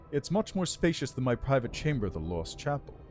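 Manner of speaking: lightly voiced regal undead lich; haughty undead lord, measured and cool. Lich speaks in game dialogue.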